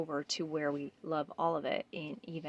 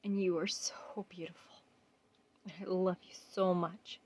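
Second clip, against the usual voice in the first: tender whisper; 5 dB quieter than usual. Real, not acted. Tender whispered affirmation to reflection.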